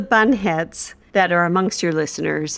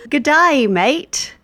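mock Australian accent; 6 semitones higher, slower than usual. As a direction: toss it off in a jokey fake Australian accent. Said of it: "a mocking Australian accent".

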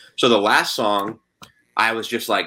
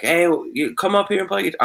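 high-pitched imitation of a crowd calling; mock calling out; 10 semitones higher than usual. Crowd urging a musician up to play, high mock call-out. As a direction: call out like an onlooker, pitched way up, without real volume. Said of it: "yell my name".

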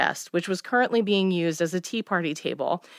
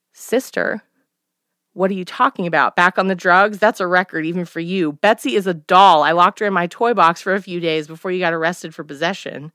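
scornful. Acted. Daughter scornful to mother.

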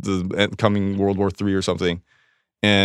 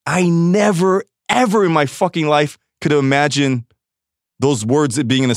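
1 incredulous; 6 semitones higher than usual. Real, not acted. Stunned by the headlines.

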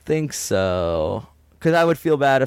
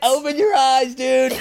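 high, strained demand; silly high voice; 13 semitones higher than usual. Pretend. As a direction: squeak the order. Acted struggle.

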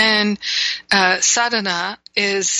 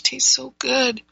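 talking between sips of coffee; words around a sip of espresso; sipping coffee; 5 semitones higher than usual. Real, not acted. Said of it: "having a sip here of my spiritual espresso".

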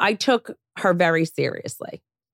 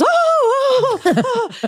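high nervous stammer of oh's, louder; flustered tailor caught out, much higher; all nervous; 5 dB louder, slower than usual. Retold or imitated. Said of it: "like, all nervous".

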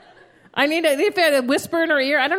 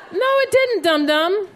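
high, laughing jab at a friend; mocking retort; 5 semitones higher than usual. Mocking her friend with a laughing no.

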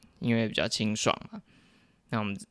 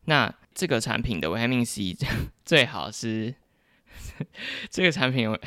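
trying not to laugh. Real, not acted. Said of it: "等一下没有在憋笑，好想笑".

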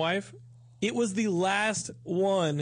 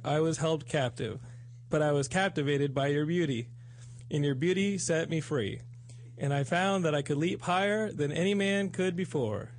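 reading a love letter. Acted. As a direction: read it like a heartfelt love letter. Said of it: "I get nervous reading this love letter".

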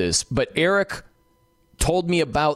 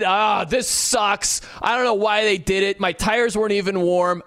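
mock griping; 2 semitones higher than usual. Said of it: "griping and complaining".

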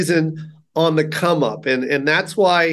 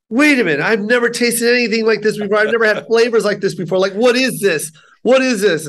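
imitating an amazed first-time taster, higher pitched; mind blown; 5 semitones higher than usual. Friend tasting Filipino food for the first time, amazed. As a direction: retell his astonishment in a raised, insistent voice. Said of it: "his mind exploded".

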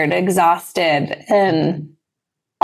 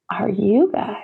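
whispered tease. Acted. Teasing listeners.

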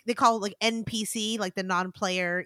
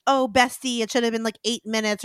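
sarcastic bestie. Retold or imitated. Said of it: "more in, like, a sarcastic way".

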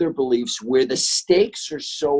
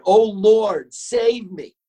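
cries out high and loud in mock panic; hammed-up plea to heaven as the bear pounces; joke-telling, a terrified yelp, played for laughs; mock cry for help; 8 semitones higher, 4 dB louder, much slower than usual. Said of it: "the atheist cries out".

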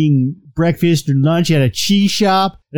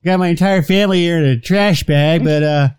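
lightly voiced, cheery awkward killer; hammed-up caller. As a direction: sound like an awkward guest at the door. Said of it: "it's like".

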